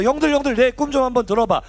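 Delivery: a hint of clueless bragging; naive younger brother. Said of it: "처음에는 철이 없어서".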